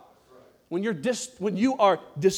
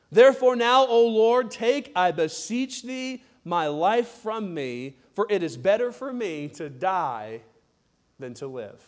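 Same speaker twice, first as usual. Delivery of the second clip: scripture reading; slower than usual. Acted. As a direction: read the despairing verse, dying away. Reads Jonah's death wish verse.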